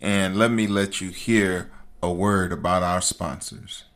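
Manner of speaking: composed and subdued after being worked up; calming down. Real, not acted. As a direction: ease off the rant into a sponsor break. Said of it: "calm down".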